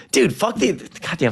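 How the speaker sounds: sudden high yelp of frustration; angry outburst. Real, not acted. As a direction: blurt it out, fed up with the game. Angry outburst at football game.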